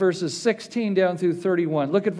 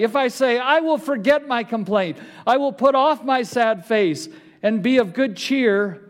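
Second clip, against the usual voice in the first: preaching scripture. Acted. Pastor reads Job's protest to the church, forceful.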